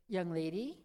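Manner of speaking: low, soft man's question; preacher addressing her. Retold or imitated. Preacher leans over to ask.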